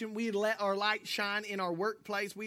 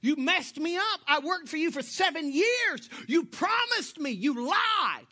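loud, high mock outrage; hammed-up furious complaint; 8 semitones higher, 6 dB louder than usual. Jacob confronting the father about the wrong sister, loud mock outrage. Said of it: "Be like".

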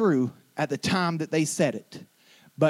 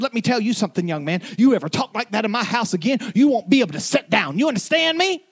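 higher and louder, furious mother warning her son; angry mom scolding; 6 semitones higher, 3 dB louder, faster than usual. Retold or imitated. Mother scolding her son for calling himself stupid, loud and angry. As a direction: lay down the law like a fed-up mom. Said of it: "began to talk to me so loud".

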